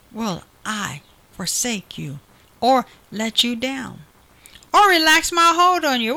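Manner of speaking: rising, building promise in God's voice; voicing God. Preacher voicing God's vow to the congregation, building. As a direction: speak God's vow with growing force.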